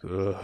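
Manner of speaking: mock groan of defeat; disgusted groan. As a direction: groan as if getting crushed. Mimes reaction to being destroyed.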